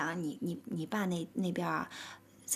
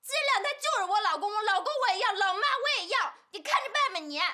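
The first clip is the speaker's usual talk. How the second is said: defiant; 5 semitones higher than usual. Acted. Daughter defies mother's ultimatum.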